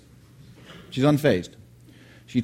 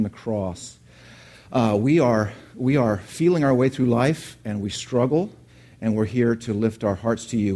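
prayer; 2 semitones lower than usual. Acted. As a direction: lift the room's hearts to God humbly. Leads a prayer.

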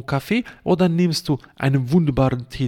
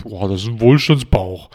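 lower, put-on smug voice; mocking smug quote; 5 semitones lower, 3 dB louder than usual. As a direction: ape a self-satisfied man bragging about his belly. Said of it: "und sagst".

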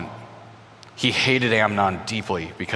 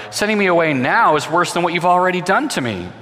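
anguished plea; 7 semitones higher, 4 dB louder than usual. A narrator's reading. Tamar begging not to be sent away.

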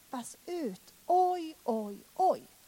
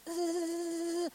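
inner groan; 5 semitones higher than usual. Retold or imitated. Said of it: "på insidan av mig".

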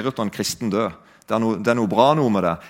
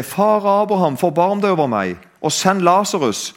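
retold calling out. Rich man begging Abraham for water, mildly raised retold cry. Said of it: "så roper da den rike og sier".

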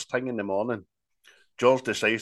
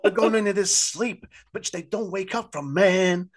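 hammed-up rumour-monger, pitched up; imitating ghetto folk; 10 semitones higher than usual. Podcaster retelling the ghetto folk's warning, mock high voice. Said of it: "They're all like".

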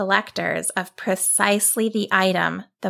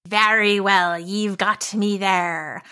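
monster growl. Acted. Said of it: "the monster growled".

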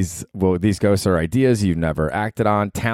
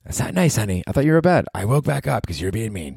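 higher, chiding partner voice; scolding girlfriend; 4 semitones higher than usual. Acted. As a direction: play the girlfriend telling him off. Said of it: "that little skit has ended".

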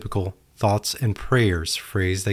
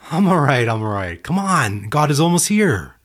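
higher, insistent "I'm all right" repeated; stubborn man; 6 semitones higher, 3 dB louder than usual. Acted. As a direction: wave them off in a pitched-up, stubborn voice. Stubborn man refusing rescue.

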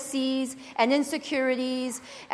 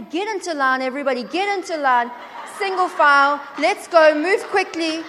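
louder, barking at everyone to line up; mock bossy orders; 3 semitones higher, 4 dB louder than usual. Preacher mocking her own bossy side, herding people into line. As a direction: hurry the crowd like a drill sergeant.

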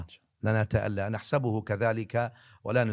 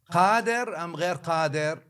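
raised and higher, pressing the question; the drunkard calling after the sheikh, loud and higher; loud challenge; 6 semitones higher, 5 dB louder than usual. Retold or imitated. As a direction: demand an answer. Drunkard repeats his challenge.

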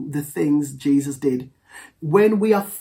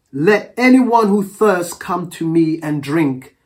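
loud voice; 5 dB louder, slower than usual. Retold or imitated. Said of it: "Jesus stood and said in a loud voice".

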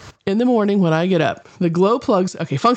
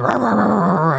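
imitated alarm. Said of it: "you hear that sound".

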